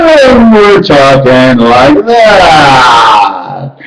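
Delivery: very slow, shouted out; talking like that. Shown as a demonstration. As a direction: drag the words out in a shout. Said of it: "It's our talking and how we talk".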